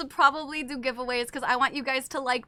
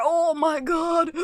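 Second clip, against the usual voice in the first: excited shout; 3 semitones higher, slower than usual. Real, not acted. Sees flavoring powder.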